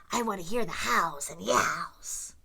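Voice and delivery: unvoiced pleading whisper. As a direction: beg them to hush and listen. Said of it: "begged Grump".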